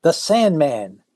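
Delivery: high, alarmed mock yell. Swimmer recognizing the villain, high mock alarmed yell. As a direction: cry out his name in alarm. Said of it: "And the woman yells".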